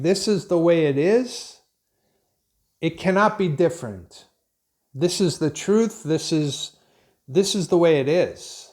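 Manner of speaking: mildly emphatic, imitating someone laying down the law; mock know-it-all certainty, measured and firm; authoritative. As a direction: state it as the only possible truth.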